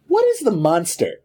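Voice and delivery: point-blank question; Locke. Retold or imitated. Man demanding an answer from his captive, point blank. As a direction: imitate a blunt, direct demand. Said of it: "looks at him point blank and says".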